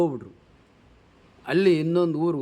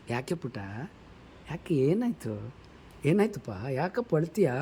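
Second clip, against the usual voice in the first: tender mother; 3 semitones lower, 6 dB quieter than usual. Retold or imitated. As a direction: ease the words out gently, like soothing a little boy. Mother comforting her hurt son.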